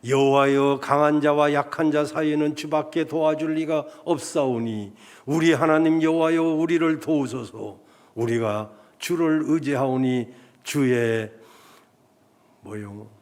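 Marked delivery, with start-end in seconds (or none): 0.1-11.3 loud, pleading prayer, slowing at the end; crying out in prayer. Retold or imitated. Pastor voicing King Asa crying out to God, loud and pleading. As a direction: cry out the king's prayer to God. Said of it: "부르짖어 가로되".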